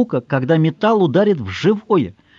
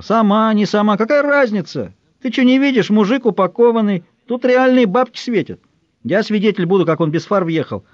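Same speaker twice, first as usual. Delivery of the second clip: greedy tenor; 6 semitones higher than usual. A narrator's reading. Tenor from the crowd pushes the girl to squeeze money, high and pushy. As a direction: press the girl to cash in.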